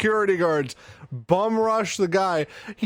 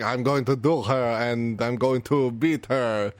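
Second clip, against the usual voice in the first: terrible mock French accent, lowered pitch; Pierre; 6 semitones lower than usual. French gambler vowing to duel her, terrible French accent. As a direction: do a hammed-up bad French accent. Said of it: "obviously in a terrible French accent".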